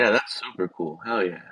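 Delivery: glitchy robot voice cutting out; robot voice breaking up over headphones. Real, not acted. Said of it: "like a robot voice".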